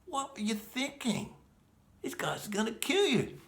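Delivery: high, slow, alarmed inner voice; high strained voice berating himself; panicked self-scolding. Retold or imitated. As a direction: scold yourself in sudden panic. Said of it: "I was like".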